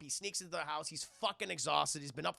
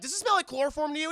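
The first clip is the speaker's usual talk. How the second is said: creepy; 9 semitones higher, 8 dB louder, faster than usual. Retold or imitated. Creepy joke line.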